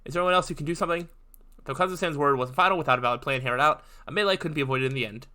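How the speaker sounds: reading narration and lightly voicing each character; visual novel reading. A narrator's reading. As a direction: read the game scene aloud, lightly acting. Reads visual novel aloud.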